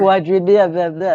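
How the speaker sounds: "quadru-" collapsing into "blah, blah, blah"; tongue-tied garble. Shown as a demonstration. Coach showing the word is unsayable, tongue-tied on "quadru-". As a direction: trip over "quadru-" and babble the rest. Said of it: "getting it out of your mouth is impossible".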